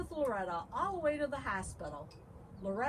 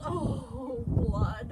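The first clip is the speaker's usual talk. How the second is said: yelled; 5 dB louder than usual. A narrator's reading. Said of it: "Loretta's father yelled".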